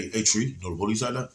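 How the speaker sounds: lightly voiced impression of the cousin's way of talking; imitating cousin Dontero. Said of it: "That's how he talk".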